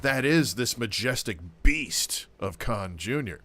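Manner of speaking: slow, grand wildlife narrator; nature documentary. Acted. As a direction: narrate him like rare wildlife. Mock wildlife narration about Don Junior.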